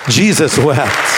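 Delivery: "Jesus wept" slow but connected; low, deliberate "Jesus wept"; firm, weighted repeat. Shown as a demonstration. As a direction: state "Jesus wept" as one firm, measured phrase. Repeats the answer more firmly.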